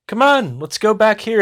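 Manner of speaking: high, loud mock man's voice; mocking high-pitched coaxing. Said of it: "I'm just trying to mock him".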